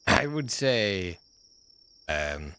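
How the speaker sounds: put-on German accent. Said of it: "my German accent is authentic".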